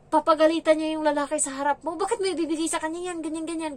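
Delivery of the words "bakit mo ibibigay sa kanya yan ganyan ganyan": mock scolding. Employer scolding man over food.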